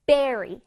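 berry with a full English r; clear R. Shown as a demonstration. Teacher drilling the second half of strawberry, clear r in berry. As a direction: bring out the r in berry. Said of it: "R를 살려줘야 돼".

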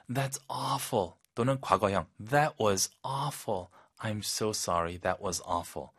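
softly caring; soft sympathy. Shown as a demonstration. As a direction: console them tenderly. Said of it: "아주 부드럽게".

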